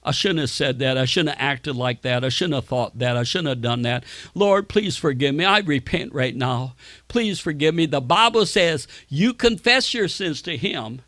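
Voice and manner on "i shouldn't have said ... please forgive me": repentant prayer. Shown as a demonstration. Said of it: "you say".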